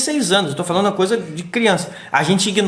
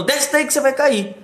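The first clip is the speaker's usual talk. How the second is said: higher-pitched worried mom voice; mother's warning; 8 semitones higher than usual. Retold or imitated. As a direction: play the anxious mother calling her kid down. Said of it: "é a mamãe falando".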